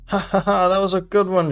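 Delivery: high, loud stagey laughter; dramatic fake laugh. A narrator's reading. Thief puts on a show for the guards, dramatic laugh. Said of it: "she laughs dramatically".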